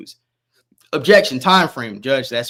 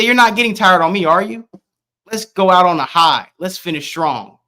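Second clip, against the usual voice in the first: coaxing quote; 4 semitones higher, 5 dB louder than usual. Acted. Reads testimony quoting the man's coaxing.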